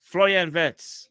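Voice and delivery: hyped reporter impression. Mimicking transfer reporter.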